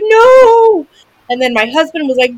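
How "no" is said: sudden high shout of no; retold cry of no. Mother hearing her daughter's voice crack, high shout. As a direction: blurt it out high and loud, all protective.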